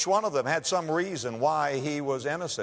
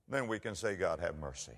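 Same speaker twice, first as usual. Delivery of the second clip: hushed prayer; 4 semitones lower, 9 dB quieter than usual. Retold or imitated. Quiet prayer after loud preaching.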